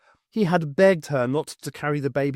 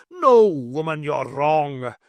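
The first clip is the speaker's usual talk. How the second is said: angry retort; 5 dB louder, slower than usual. Acted. Husband shouts at ghost.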